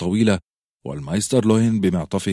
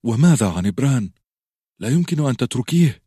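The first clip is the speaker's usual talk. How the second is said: bewildered; 6 semitones higher, 4 dB louder than usual. Acted. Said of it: "وقد بدا حائرا تماما الآن".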